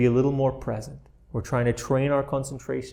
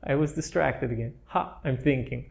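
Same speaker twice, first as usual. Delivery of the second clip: light laugh; 4 dB quieter than usual. Shown as a demonstration. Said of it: "So laugh a little bit".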